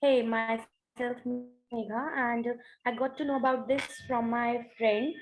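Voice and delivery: choppy call audio; conference call. Real, not acted. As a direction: voice breaking up over a bad connection. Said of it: "your audio is cutting out".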